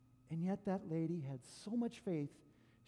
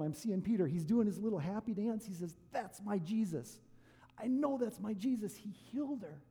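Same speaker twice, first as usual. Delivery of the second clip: louder, higher gleeful Peter; happy Peter; 3 semitones higher, 5 dB louder than usual. Retold or imitated. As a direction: cheer like a disciple doing a happy dance. Peter doing his happy dance.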